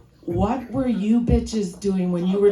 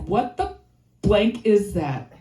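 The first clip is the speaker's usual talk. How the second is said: put-on censored kid gripe. Kid opening her lunch, mildly grossed out. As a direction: swap in blank, mildly grossed out. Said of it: "I'm like".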